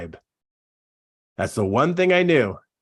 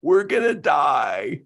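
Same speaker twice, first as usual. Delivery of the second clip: mock dying lungs; 3 semitones higher, slower than usual. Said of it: "my lungs were saying".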